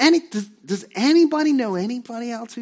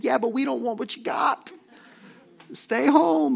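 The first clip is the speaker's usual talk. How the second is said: mock shout; 4 semitones higher than usual. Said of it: "And they said".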